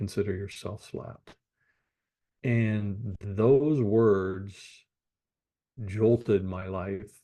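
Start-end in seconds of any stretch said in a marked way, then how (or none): 0.0-1.3 hushed, very gentle, soft near-whisper. Retelling a grandmother's reply to a smart-aleck joke, retelling a very gentle voice. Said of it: "in a very gentle voice".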